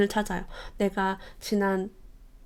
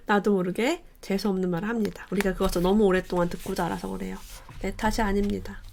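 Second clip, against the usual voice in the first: ordinary talk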